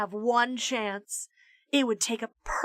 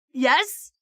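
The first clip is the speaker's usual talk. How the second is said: hoarse donkey; 4 semitones higher, 4 dB louder than usual. Acted. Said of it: "like a donkey with tonsillitis".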